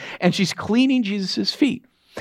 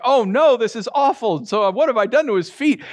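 lightly acted dismay, raised pitch; mock dismay; 5 semitones higher than usual. Woman horrified at the mess on his feet, mock dismay. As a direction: play at being mildly horrified.

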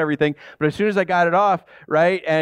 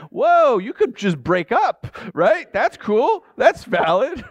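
amused; 7 semitones higher, slower than usual. Pretend. Joking reply to imagined plot.

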